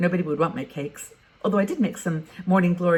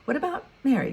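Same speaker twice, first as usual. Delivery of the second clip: "What about Mary?" pitched much higher, rising excitedly on Mary; raised voice; 8 semitones higher, faster than usual. Shown as a demonstration. Suggesting a replacement volunteer, voice raised too high on Mary. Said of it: "Shouldn't have raised my voice there".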